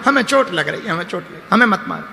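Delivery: imitated soft, pained complaint; mock crying. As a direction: plead softly, pretending to cry. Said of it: "भाई रो क्यों रहे हो?". (रोते हुए शिकायत की नकल)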